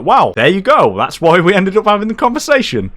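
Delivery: high, loud, exaggerated vindication; mock told-you-so. Explaining to robbed friend, high exasperated told-you-so. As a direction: act out a high-pitched "finally, you get it".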